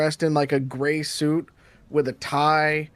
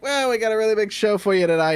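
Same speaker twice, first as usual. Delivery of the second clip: raised showman's stand-up voice; comedian host; 4 semitones higher than usual. Acted. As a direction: open the show like a club comic. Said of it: "he's just starting telling jokes".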